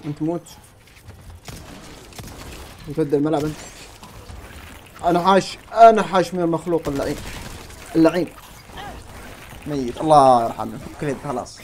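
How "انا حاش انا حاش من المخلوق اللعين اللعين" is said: tense cornered cry. Real, not acted. Cornered by a monster in game.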